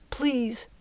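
small, soft, high plea; raspy plea. A narrator's reading. Girl to departing fairy with dry throat, raspy plea. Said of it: "her voice came out in a rasp".

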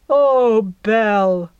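a hammed-up loving sigh; melodramatic sigh. Jack pretends devotion to Belle, hammed-up. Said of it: "sheer melodrama of his performance".

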